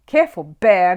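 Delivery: loud gruff warning; growled warning. A narrator's reading. Mister Curry warns Paddington over the cake, gruff. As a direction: snap a warning at the bear. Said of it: "growled Mister Curry".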